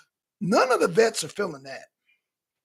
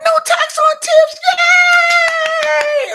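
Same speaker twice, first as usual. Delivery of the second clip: high, loud, excited mock Harris voice; mocking Kamala Harris; 10 dB louder, much slower than usual. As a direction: ham up a politician's big announcement. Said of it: "She's like".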